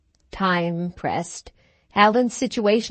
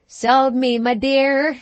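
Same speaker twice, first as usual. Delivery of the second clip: higher, louder Scots exclamation; emphatic Alan; 6 semitones higher, 4 dB louder, slower than usual. A narrator's reading. Alan answers Katrina's question, emphatic. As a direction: throw the words back loudly.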